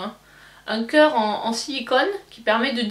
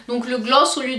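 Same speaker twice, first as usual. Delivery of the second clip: whispering. Real, not acted. Still fiddling with the lid.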